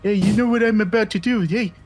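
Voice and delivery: high, nasal, sneering crooked cop voice; mock a smug crooked cop in a high nasal whine; nasally bitch voice. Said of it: "that's a really good impression".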